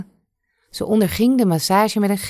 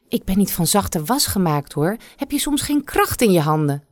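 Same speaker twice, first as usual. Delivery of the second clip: korzelige moeder die snauwt; snauwend; 2 semitones higher than usual. Acted. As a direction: kortaf en geïrriteerd. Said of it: "snauwde ze". (moeder snauwt haar dochter af tijdens de massage)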